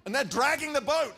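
high, loud narration at full tilt; excited storytelling. A narrator's reading. Preacher telling how the boat was dragged, excited storytelling. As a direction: act out the strain of the catch, pitched high and loud. Acting out the miraculous catch.

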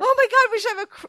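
high, excited burst; excited brainwave. Real, not acted. Host pitching a crystal ball bit, high and excited. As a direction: squeal out a sudden idea.

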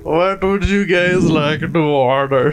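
put-on a light Indian accent waiter; a hint of an Indian accent, slow. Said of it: "do it in the accent".

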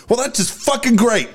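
sudden high yelled curse, half-acted; mock outburst. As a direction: blurt it out like a sudden tic. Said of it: "She just freaks out".

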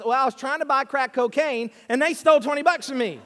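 mildly indignant complaint, retold; mock mad woman. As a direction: imitate an aggrieved victim protesting. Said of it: "She's really mad".

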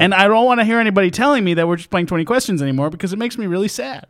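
hammed-up angry complaint; mock angry. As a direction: rush it indignantly, then go high on the last word. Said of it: "His voice gets higher when he gets angry".

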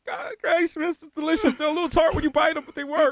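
high, put-on voice reading an apple review; hammed-up fruit critic; mock review voice. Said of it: "I'm like".

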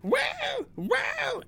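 high sarcastic mock wow. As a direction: sneer it in a high squeak. Mocking the bragging dog owner.

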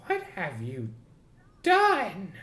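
a touch of panicked disbelief; stammered shock; freaked out. Acted. Boss, finding his wife at the party, freaked out. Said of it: "he's so freaked out".

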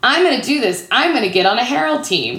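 high, emphatic self-pledge; determined. Retold or imitated. Newcomer vows to make an improv team, determined. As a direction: imitate your eager younger self vowing. Retelling her first-night vow.

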